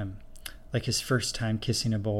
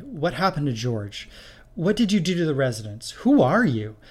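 rising, fast, louder nervous questions; nervous tumble of questions; 5 semitones higher, 4 dB louder than usual. Acted. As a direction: blurt them out one after another. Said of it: "The questions tumbled out".

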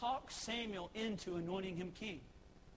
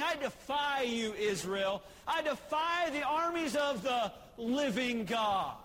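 taunting Goliath; 2 semitones higher, 4 dB louder than usual. Retold or imitated.

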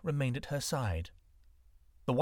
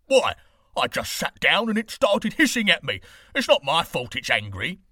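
defensive beggar; 4 semitones higher, 10 dB louder than usual. A narrator's reading.

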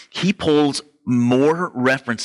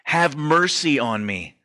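high, slow pleading call; a blind beggar calling out over the crowd, pleading; retold shout; 4 semitones higher, slower than usual. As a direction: cry out to Jesus for mercy, stretched. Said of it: "he shouts out".

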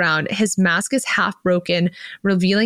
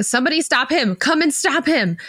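retold yell; 6 semitones higher than usual.

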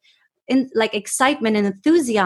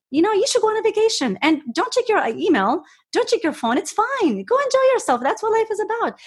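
much higher, bouncy mock-cheerful advice; playful funny voice; 10 semitones higher than usual. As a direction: tease a workaholic coworker in a sing-song high voice. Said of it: "like, funny".

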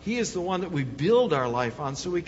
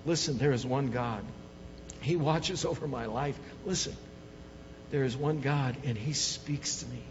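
soft closing reflection; 2 semitones lower, 4 dB quieter than usual. Acted. Pastor quietly closing the sermon, softly reassuring. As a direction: bring it down, gentle and intimate.

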